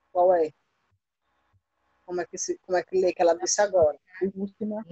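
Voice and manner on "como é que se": ordinary delivery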